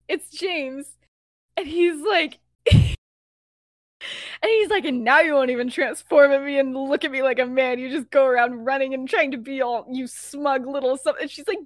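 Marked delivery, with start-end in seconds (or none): 4.8-11.2 loud retold tirade at a dog; acted-out scolding, louder at the start; mock angry yelling. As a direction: rant loudly, half in earnest. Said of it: "he's yelling at the dog".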